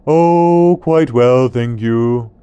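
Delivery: loud, high prim vulture voice; a proper old bird, loudly; creepy vulture croak. Acted. Vulture answers iguana.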